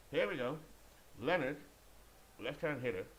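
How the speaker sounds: attempted southern twang, announcer style; British speaker trying a southern twang. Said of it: "give it a southern twang".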